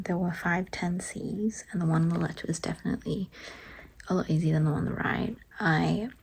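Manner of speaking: soft whispered vlog voice; whispering. Real, not acted. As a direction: whisper it to the camera.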